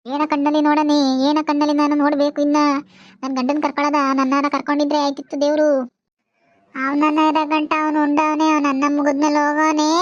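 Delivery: acted grieving wail; weeping lament. Widow wishing god had taken her instead, weeping lament. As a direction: mourn aloud, understated tears. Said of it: "ಸುಮ್ನಿರು, ಅಳ್ಬೇಡ ನೀನು".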